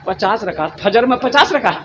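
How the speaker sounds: soft mock disbelief, rising on the repeat; incredulous question. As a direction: quietly echo the claim as if astonished. Retold incredulous repeat of answer. (धीमी आवाज़ में हैरानी भरा सवाल)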